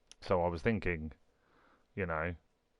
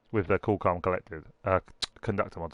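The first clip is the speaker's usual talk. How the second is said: loose dentures. Real, not acted. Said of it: "Put my teeth in, get it right".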